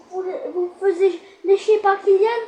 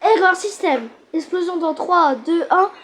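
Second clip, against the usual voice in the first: robot voice. Pretend. Robot malfunction countdown.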